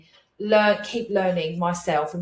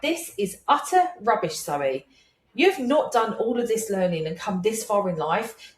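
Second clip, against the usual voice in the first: harsh self-scolding. Retold or imitated. Speaker retelling how she told herself off on the scooter, mock stern. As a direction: scold yourself to snap out of fear, half in earnest. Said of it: "Now, that was a bit harsh".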